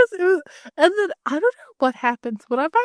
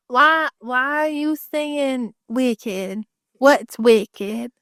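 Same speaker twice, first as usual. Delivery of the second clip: mock yokel; much slower than usual. Imitating karaoke crowd.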